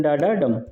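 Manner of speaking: डा, डा leading to a final डम; anapaest beat. Shown as a demonstration. Teacher repeating the pattern for students, stress on final डम. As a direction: beat out डा, डा, then land on डम. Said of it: "इसका जो है ये रहता है पैटर्न".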